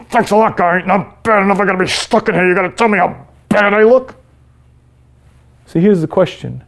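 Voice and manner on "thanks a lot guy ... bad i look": sarcastic. Pretend. Sarcastic reply from the bed.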